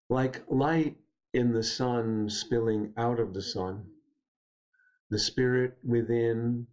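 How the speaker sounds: slow, measured poetry reading; unhurried verse with spacious pauses; poem recitation. Acted. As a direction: read the poem slowly, pausing between the lines. Reads own poem aloud.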